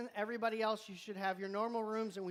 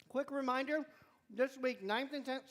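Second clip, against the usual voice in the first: mouth full; 4 semitones higher than usual. Real, not acted. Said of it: "sorry, I'm still chewing".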